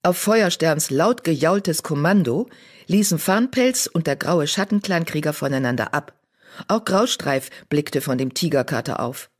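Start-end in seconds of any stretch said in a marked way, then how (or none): none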